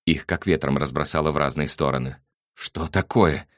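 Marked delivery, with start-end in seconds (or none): 2.5-3.5 loud startled roar. A narrator's reading. Nick caught in bed roars at the door. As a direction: bellow it at the intruder. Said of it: "взревел Ник".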